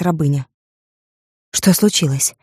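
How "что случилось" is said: usual speaking voice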